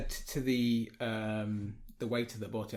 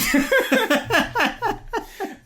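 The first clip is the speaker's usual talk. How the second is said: laughter; 11 dB louder than usual. Real, not acted. Laughing at own story.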